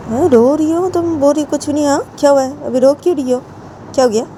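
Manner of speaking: high, insistent questioning voice; Jiya pressing. Acted. Jiya demands why her friend is crying, high and insistent.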